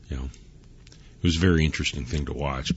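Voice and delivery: hushed, unvoiced whisper. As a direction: whisper it like a secret aside. Repeats the phrase, then whispers it.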